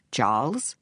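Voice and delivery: calm, measured question with a rise. A narrator's reading. Vic facing the gunman in his doorway, calm. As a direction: ask gently, without alarm. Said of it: "he asked calmly".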